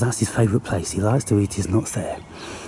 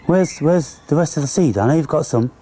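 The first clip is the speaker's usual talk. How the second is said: coaxing pet voice; 5 semitones higher than usual. Retold or imitated. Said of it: "Just go".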